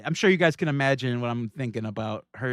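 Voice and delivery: usual speaking voice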